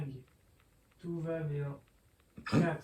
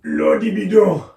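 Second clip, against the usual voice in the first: loud, high shout; 5 semitones higher, 16 dB louder than usual. Real, not acted. Kid interrupting mother's video, loud high shout. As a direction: belt it out to interrupt. Kid shouting over the filming.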